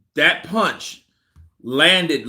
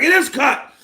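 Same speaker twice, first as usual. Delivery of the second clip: retold exclamation; 11 semitones higher, 4 dB louder than usual. Acts out the fighter's exclamation.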